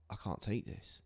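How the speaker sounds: a hushed, breathy whisper of being overwhelmed; barely voiced whisper, too much to bear; whispered despair. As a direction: let it slip out as a whisper, at the end of your rope. Retelling despair after sister's death.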